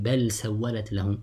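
بل with a clear ل before سولت; izhar. Shown as a demonstration. Teacher gives students the seen example, izhar. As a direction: keep ل and س apart in بل سولت. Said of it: "recite with إظهار".

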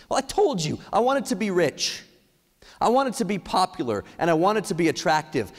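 high-pitched acted reply to oneself; answering himself. Speaker answering his own hard question, acted self-justifying. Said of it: "I started asking myself".

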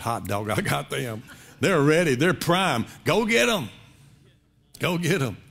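a tempter licking his lips, a touch hammed up; a devil gleefully sending his troops after a weakened believer; gloating devil. Satan gloating over his prey.

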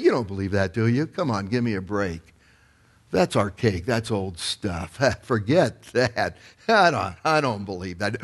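subtle devil's voice. Acted. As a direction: play the sly tempter, understated, sowing doubt. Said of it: "comes in that subtle little voice".

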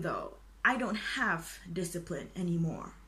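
a hushed, breathy confession; whispering. Pretend. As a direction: whisper it like a guilty secret. Confessing her lack of discipline.

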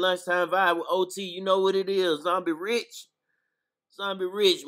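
announcing his show with energy; hype intro. Real, not acted.

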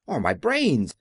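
high, mild mock wail; a touch of a high lament. A narrator's reading. The Scarecrow mourns his missing brains, lightly wailed. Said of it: "wailed the Scarecrow".

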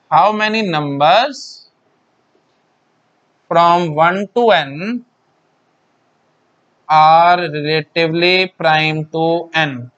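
very slow, word by word; slow dictation. Shown as a demonstration. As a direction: dictate it so they can write. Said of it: "teacher dictating the definition".

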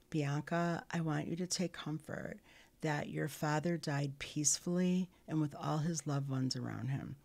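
a social worker soothing a grieving inmate; calm comforting. Retold or imitated. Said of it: "very calmly said to me".

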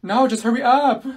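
impatient. Real, not acted. Impatient with long story.

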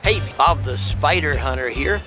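usual speaking voice

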